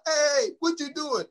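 high, slow, startled protest; alarmed. Retold or imitated. Chris Tucker startled when grabbed, high and alarmed. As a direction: sound caught off guard.

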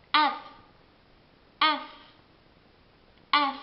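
F said as ef, cut short; English F. Shown as a demonstration. Teacher drilling English F. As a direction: stop F halfway, ef. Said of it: "si ferma a metà".

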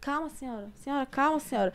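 soft, hushed reassurance; calm a frightened old woman gently; holding the crying old lady, soft and hushed; soothing. Retold or imitated. Calming crying old lady on plane.

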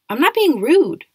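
high, loud defensive retort; indignant protest. Acted. Julian denies being rude, loud and high. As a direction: fire back, offended and loud.

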